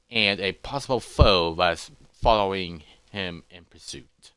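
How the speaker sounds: low, measured closing narration; deliberate storyteller, fading at the end; story narration. A narrator's reading. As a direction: trail into an ominous ending.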